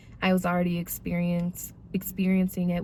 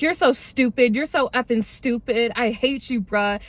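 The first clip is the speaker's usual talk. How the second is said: higher-voiced imitation of angry name-calling; retold angry insults; 4 semitones higher than usual. Drunk boyfriend insulting his girlfriend, retold angry jabs. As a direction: throw the insults, mimicking his anger.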